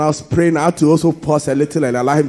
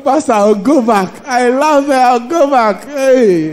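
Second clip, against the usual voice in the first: laughing; 8 semitones higher, 8 dB louder than usual. Retold or imitated. Imitating crying man, laughing.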